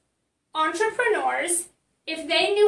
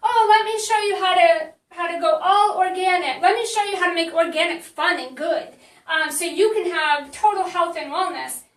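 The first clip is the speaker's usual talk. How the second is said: mock coach pitch; 4 dB louder than usual. Coach mocks a client's bland marketing post, in a hammed-up pitch voice. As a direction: parody an eager health coach selling her passion. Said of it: "if you're putting stuff out like".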